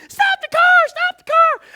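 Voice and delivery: high, loud panicked scream; frantic high yell at the driver; screaming sister. Retold or imitated. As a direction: shriek it like a terrified passenger. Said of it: "My sister's screaming at me".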